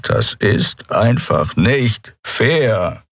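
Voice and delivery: slow, defeated sigh of a line; dejected complaint. Acted. Chasu laments his defeat to himself, slow and dejected. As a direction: drag it out, beaten. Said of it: "mit hängenden Schultern".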